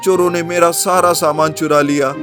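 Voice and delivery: woeful storybook man, pitched a little up; dismayed lament of a robbed man; lamenting owner. Acted. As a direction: wail mildly over a ruinous loss.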